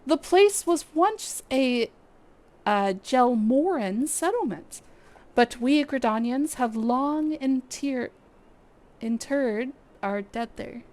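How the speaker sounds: lightly voiced stately guild leader, measured; brief the adventurers with courteous gravity; Lewin, formal commander. Streamer voicing the guild leader's mission briefing, lightly formal. Reading NPC Lewin's lines.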